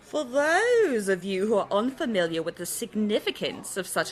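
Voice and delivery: a light put-on British accent, fading out; understated posh London voice; mock British accent. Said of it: "we've already got the bloody accents".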